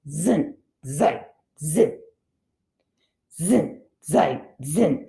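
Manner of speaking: low, soft chant like a saw going back and forth; sawing log rhythm. Shown as a demonstration. Teacher chanting the plural forms to sound like sawing a log. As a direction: drone the words like sawing a log. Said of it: "reminds me of when you're sawing a log".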